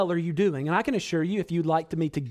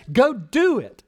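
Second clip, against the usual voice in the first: sin tempting; 6 semitones higher, 5 dB louder, slower than usual. Acted. Sin personified urging the sinner.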